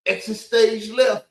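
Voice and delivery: slow, lightly hammed cartoon exit line; a light nod to the cartoon lion, drawn out; Snagglepuss catchphrase. Quoting the cartoon lion to mock the narrator, slow light ham. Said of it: "he's Snagglepuss".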